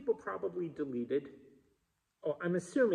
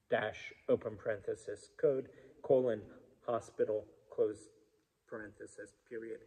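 dictating; 5 semitones lower, 5 dB quieter than usual. Retold or imitated. Reading out dictated punctuation.

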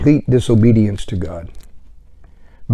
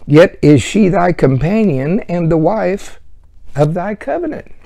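higher, louder preaching read; fervent scripture reading; 5 semitones higher, 5 dB louder than usual. Acted. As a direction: proclaim the verse with rising fervour.

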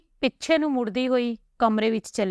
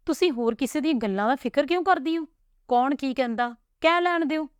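a hint of an old father giving counsel, pitched higher; lightly voiced wise father; 3 semitones higher than usual. Father telling daughters to ignore taunts, lightly voiced reassuring. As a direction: reassure them like a steady, loving father.

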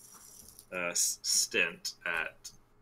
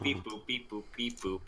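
soft beeping; 3 semitones higher, 5 dB quieter than usual. Pretend. Echoing data pad beeps.

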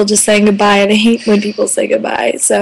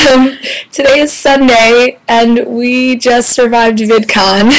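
raspy whisper; slower than usual. Real, not acted. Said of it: "I have no voice".

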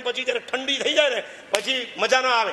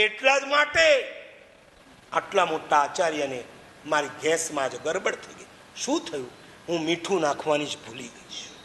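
tearful woman; 5 semitones lower than usual. Acted. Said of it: "ધ્રુસકે ધ્રુસકે રડવાનું".

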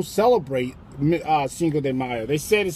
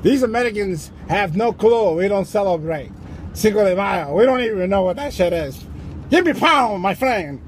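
lightly put-on Mexican accent; unimpressed onlooker with a Mexican accent. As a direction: play a bemused Mexican worker's accent. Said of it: "Meanwhile, the Mexicans are".

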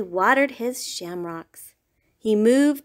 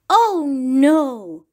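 mild groan of dismay, pitched up; 4 semitones higher, 5 dB louder than usual. Acted. Rabbit groaning at Goat's plate and knife. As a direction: groan it at the sight of the fork. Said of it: "Rabbit groaned".

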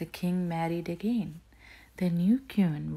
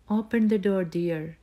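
put-on louder, gruff disguised old man; 3 semitones higher, 6 dB louder than usual. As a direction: growl it like a gruff old peddler. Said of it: "said the queen in a gruff voice".

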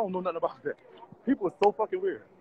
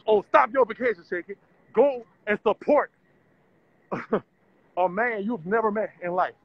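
mocking nag; 3 semitones higher than usual. Mimicking people telling her to skip vacation, mock nagging. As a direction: sneer it like a preachy stranger.

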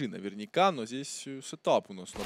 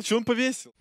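esports caster. Real, not acted. Live play-by-play commentary.

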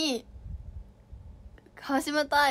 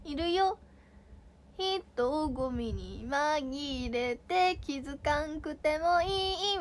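Nagoya dialect; 2 semitones higher, much slower than usual. Shown as a demonstration. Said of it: "みたいな".

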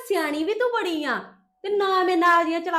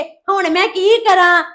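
mock whining; 6 dB louder, slower than usual. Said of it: "ਰੋਂਦੀ ਰਹੇਂਗੀ".

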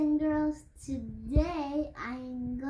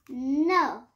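defiant shout; 6 dB louder than usual. Acted. Child refuses again.

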